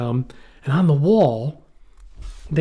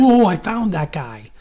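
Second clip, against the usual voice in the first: higher, drawn-out mock discovery; mock excitement; 5 semitones higher, 3 dB louder, slower than usual. Tourist spotting a wanted man, mock excited. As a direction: imitate an over-keen amateur spotter. Mimics an eager amateur spotter.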